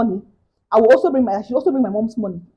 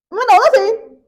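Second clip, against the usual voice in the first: exasperated disbelief; 3 semitones higher, 4 dB louder than usual. Real, not acted. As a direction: pile up the absurd steps, baffled. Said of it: "exasperated rant".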